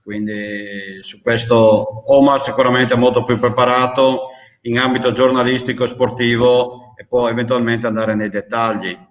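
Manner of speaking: muffled behind a mask; speaking through a cloth mask; through a face mask. Real, not acted. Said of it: "Io mi scuso per la mascherina".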